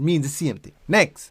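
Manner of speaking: usual speaking voice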